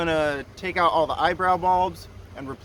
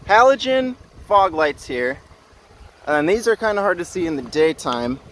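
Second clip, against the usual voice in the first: raised voice against the wind; shouting over wind; 4 dB louder than usual. Real, not acted. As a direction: call it out loud over gusts. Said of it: "I'll try and yell over the wind".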